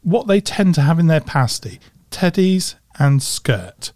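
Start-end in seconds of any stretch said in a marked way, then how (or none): 2.1-3.9 slow Cornish "teddies and skirt"; Cornish accent. Shown as a demonstration. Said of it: "think of the Cornish accent".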